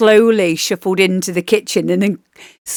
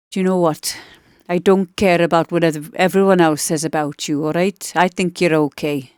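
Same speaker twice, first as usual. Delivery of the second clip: lightly put-on Welsh accent, teasing; a hint of Welsh lilt, mock friendly; 2 semitones lower than usual. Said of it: "I'd say, in a Welsh accent".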